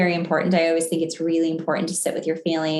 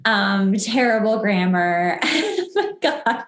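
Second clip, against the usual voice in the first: laughing; 3 semitones higher, slower than usual. Real, not acted. Laughing about old journals.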